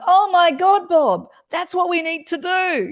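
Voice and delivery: imitating coworkers suddenly loving the idea; mock delighted colleagues. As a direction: ham up the office praise for Bob. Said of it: "And everyone goes".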